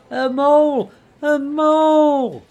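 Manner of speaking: high, loud bellow with a long-held last word; shouted war cry. A narrator's reading. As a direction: charge in roaring your name. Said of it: "shouting his awful war cry".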